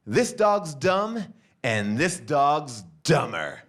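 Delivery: slow, drawn-out schoolyard insult; slow taunt. Acted. Husband insults the man's dogs, slowly and deliberately. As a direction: drag it out like a killer comeback.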